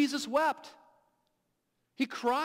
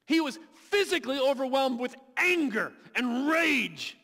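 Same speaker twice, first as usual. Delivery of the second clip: higher and louder, building up the fervour; rising intensity; 4 semitones higher, 4 dB louder than usual. Acted. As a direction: preach it with mounting passion. Describing Jesus shaking with rage.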